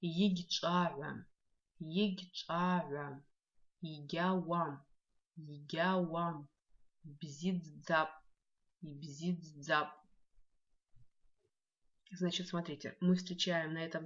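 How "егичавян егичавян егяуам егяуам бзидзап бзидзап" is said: slow drill word. Shown as a demonstration. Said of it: "потренируем произношение".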